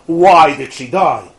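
mock-distraught plea, slow and insistent; freaked out. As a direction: demand a reason, drawing out WHY. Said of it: "the guy is freaked out".

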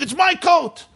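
high squabbling cry; son's mock scream in a quarrel; retold scream. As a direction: shout back in a high voice. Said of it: "The son was screaming".

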